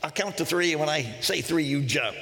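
a lightly put-on New Zealand accent. Guide tells jumper about the count, New Zealand accent. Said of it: "this great New Zealand accent".

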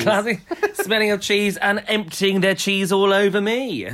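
laughing through a mock grumble; laughing mock complaint. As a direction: giggle while grumbling as her. Voicing the woman, laughing.

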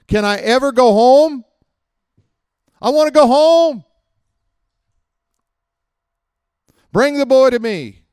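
exasperated Jesus. Retold or imitated. Jesus fed up with faithless disciples, high and exasperated. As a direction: groan it like a fed-up teacher. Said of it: "He says".

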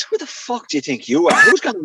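mock-outraged challenge; mock indignation. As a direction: imitate a mate taking him down a peg. Mate ribs him in retold row.

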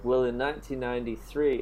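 put-on Australian accent. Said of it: "I'm trying to do an Australian accent".

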